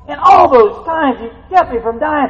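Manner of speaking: high, loud jubilant cries; ecstatic shouting. Real, not acted. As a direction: whoop for joy. Preacher shouting joy of heaven.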